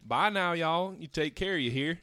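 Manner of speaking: put-on friendly Southern accent goodbye; drawn-out Southern y'all farewell. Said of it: "a good Southern goodbye".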